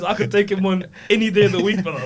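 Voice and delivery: laughing tough-guy boast; mock boast. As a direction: puff up like a tough little kid.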